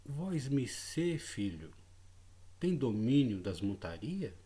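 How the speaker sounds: slow, old-fashioned solemn address, lightly voiced; a mild hint of an old-time preacher, drawn out; imitating an odd archaic manner, understated; strange formal speech. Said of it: "achei estranho ele falar daquele jeito".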